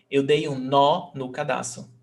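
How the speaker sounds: strong open "nó", reduced "no"; stress on "nó". Shown as a demonstration. Teacher proves to students why it has the accent, stress on "nó". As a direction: hit "nó", pass lightly over "no". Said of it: "one is stressed and the other one is not".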